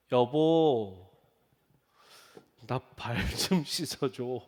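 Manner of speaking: shy request. Retold or imitated. Asking wife to wash feet.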